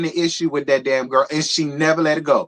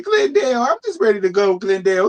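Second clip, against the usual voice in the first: higher-pitched imitation of tearful pleading; half-acted tearful begging; mock crying plea; 10 semitones higher, 4 dB louder, much faster than usual. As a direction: mimic a guilt-tripping cry, lightly. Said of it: "Letitia crying, trying to".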